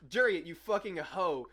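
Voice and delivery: retold slow mock yell. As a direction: yell the name slowly across the shop. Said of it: "he just goes".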